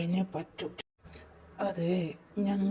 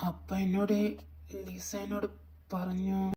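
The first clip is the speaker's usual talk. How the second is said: subdued recounting; 7 dB quieter than usual. Acted. Telling friends about the visitor's arrival, subdued. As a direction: tell it quietly, with pauses between phrases.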